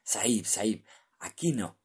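trembling whisper; frightened trembling whisper. Acted. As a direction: whisper it shaking with fear. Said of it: "se puso a temblar".

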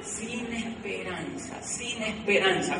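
hopeless. Real, not acted. Despairing return to Colombia.

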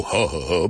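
low "huh, huh, huh" from the belly; short pulses of air from the stomach; breath-support exercise huffs; demonstrated breath pushes. Shown as a demonstration. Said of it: "using the same voice when you go".

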